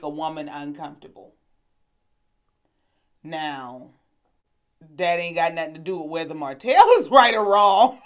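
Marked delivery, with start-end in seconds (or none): 5.0-8.1 louder, laughing through the words; can't help laughing mid-point; real laughter while talking. Real, not acted. Laughing while making her point.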